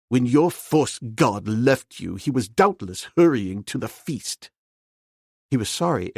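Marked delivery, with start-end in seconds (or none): 0.1-4.5 blurted out. Acted. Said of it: "he blurted out".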